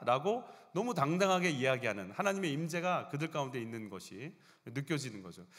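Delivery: ordinary talk, nothing marked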